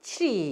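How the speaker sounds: 트리 as English "chree"; blended t-r in 트리; model for repeating. Shown as a demonstration. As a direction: glide from "ch" into r on 트리. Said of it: "이렇게 발음하세요".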